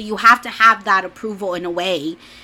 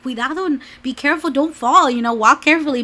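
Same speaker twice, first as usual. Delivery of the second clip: fussing mom; 5 semitones higher, 4 dB louder than usual. Retold or imitated. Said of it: "her mom would be like".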